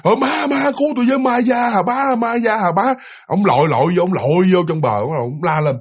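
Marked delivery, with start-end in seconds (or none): 0.0-2.9 frightened yell. Retold or imitated. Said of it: "ông vừa la".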